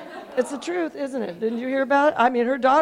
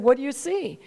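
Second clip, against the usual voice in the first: calm, easy question at usual pitch. Retold or imitated. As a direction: ask evenly, without pressing. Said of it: "quite calm at first".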